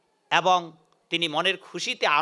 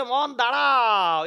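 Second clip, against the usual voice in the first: calming himself; 4 semitones higher, much slower than usual. Acted. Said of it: "ও মনকে বলছে".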